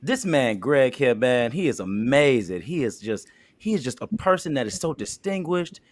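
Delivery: pumped, upbeat pitch for Greg; hyped-up sales pitch. Acted. Second take selling Greg to Tina, hyped up. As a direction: hype him like a promoter. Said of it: "Make him a little bit more fun".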